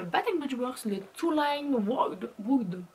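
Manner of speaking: English product name in a French accent. Real, not acted. Vlogger reading out her partner's finished shower gel, French-accented English. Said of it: "désolé pour mon accent, euh, anglais".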